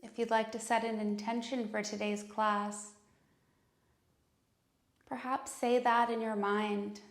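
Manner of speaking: calm, unhurried meditation voice with long pauses; guided meditation. Acted. Yoga teacher leading students into breath and intention, calm guided meditation.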